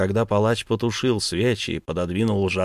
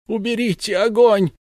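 desperate scream; 12 semitones higher, 6 dB louder than usual. Acted. Sobbing mother begs.

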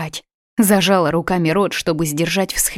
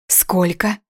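hysterical exclamation. A narrator's reading. Daughter hears the illness lasted two years, hysterical disbelief. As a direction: gasp out the question in horror. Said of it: "истерически воскликнула я".

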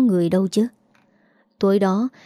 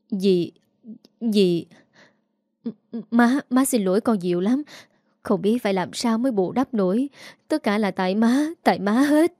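tearful apology. Acted. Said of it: "Dì Năm khóc rưng rưng".

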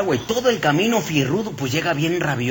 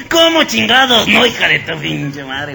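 angry yell; 5 dB louder, slower than usual. Acted. Boss yells at the maid.

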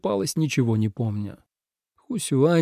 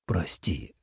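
soft, lowered sorry; guilty apology; 7 semitones lower, 8 dB quieter than usual. A narrator's reading. Dragon apologising for the roar, softly and sheepishly. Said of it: "виновато сказал".

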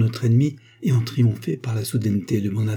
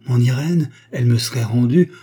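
overjoyed disbelief; 2 semitones higher, 6 dB louder than usual. Acted. Father hears lost daughter lives.

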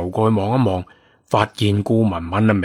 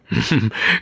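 teasing chuckle. Acted. Character chuckles while teasing.

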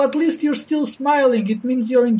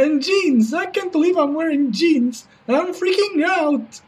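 nervous banker voice; 2 semitones higher than usual. Acted. Reporter's guest, banker voice.

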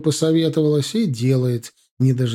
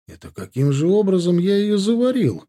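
higher, indignant disbelief; stunned; 7 semitones higher than usual. A narrator's reading. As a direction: caught off guard by the blame. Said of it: "ошарашенно спросил Руслан".

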